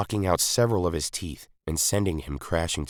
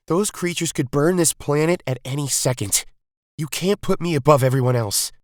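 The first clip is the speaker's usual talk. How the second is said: put-on much higher, louder boy's voice; boy's interruption; 11 semitones higher, 5 dB louder than usual. A narrator's reading. Misaka interrupts his mother, high and urgent. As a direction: cut in urgently as a young boy.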